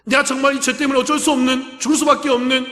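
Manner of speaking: earnest plea for forgiveness; tearful confession. Retold or imitated. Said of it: "눈물을 흘리며 울면서".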